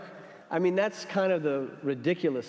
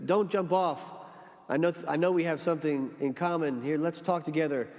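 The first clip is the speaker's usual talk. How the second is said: pleading rescuer; 4 semitones higher than usual. Retold or imitated. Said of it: "he says".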